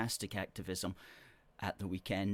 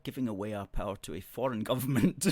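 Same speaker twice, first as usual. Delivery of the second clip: laughing; 2 semitones higher, 6 dB louder, faster than usual. Real, not acted. Mocking a viewer's comment.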